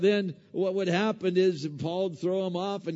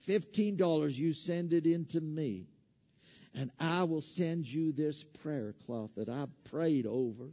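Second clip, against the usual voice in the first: Southern TV evangelist; 5 dB quieter than usual. Acted. Preacher mimicking an evangelist promising prosperity for money, Southern accent put on. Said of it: "they always have that Southern accent".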